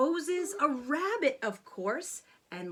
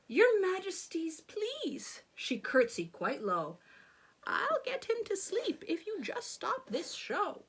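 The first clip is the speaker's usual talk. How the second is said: put-on old woman voice; 5 semitones higher than usual.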